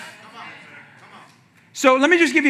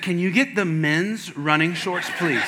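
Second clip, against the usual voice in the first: laughing; slower than usual. Retold or imitated. Shown tiny shorts at store.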